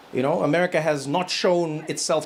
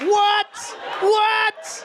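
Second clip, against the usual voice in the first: shocked disbelief. Retold or imitated. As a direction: squeak it out in total shock. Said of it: "You're like".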